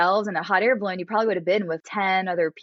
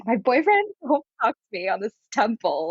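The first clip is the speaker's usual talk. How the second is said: higher, mock-sulky child voice; whiny, put-on childish complaint; pouting little girl; 4 semitones higher than usual. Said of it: "pouting like a little girl".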